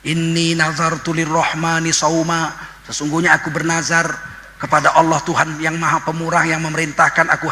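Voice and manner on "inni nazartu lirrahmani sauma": Quran recitation. Acted. Quranic verse recited in sermon.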